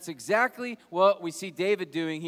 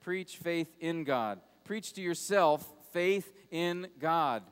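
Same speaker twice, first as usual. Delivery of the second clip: slow and deliberate, leaning on "faith"; slow emphatic sermon point; stress on faith; slower than usual. Shown as a demonstration. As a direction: spell out "Preach faith in God" word by word. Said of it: "first point in his sermon is this".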